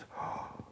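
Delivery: soft, voiceless mock gasp; imitated gasp. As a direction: gasp quietly, imitating the startled guy. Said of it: "the guy's like this".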